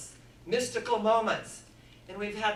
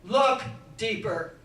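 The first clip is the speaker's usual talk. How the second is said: lone voice; 6 dB louder, slower than usual. Retold or imitated. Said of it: "a lone voice said".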